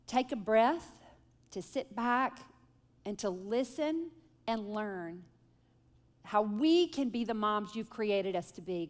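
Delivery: hushed, reverent opening prayer. Acted. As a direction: pray gently over the group, with pauses. Leads the group in prayer.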